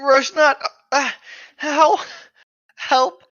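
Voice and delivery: hiccuping through the words; squeaky pitch jumps from hiccups. Real, not acted. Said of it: "I have the hiccups".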